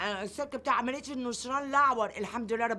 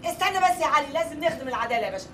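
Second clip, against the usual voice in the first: mocking mimicry; 2 semitones higher, 7 dB louder, faster than usual. Mocks Ali's words back at him.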